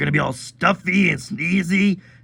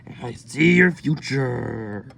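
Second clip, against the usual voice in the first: mystic fortune teller; 5 semitones lower, slower than usual. Acted. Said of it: "fortune teller".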